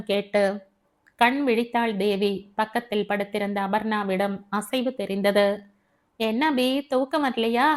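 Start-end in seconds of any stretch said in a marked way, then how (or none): 6.2-7.7 higher-pitched, lightly voiced young woman; a hint of roommate's concern, pitched up; concerned Devi. Devi wakes and asks sleepless Abi, lightly voiced higher concern.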